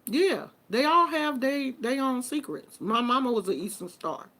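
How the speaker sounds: ordinary talk, nothing marked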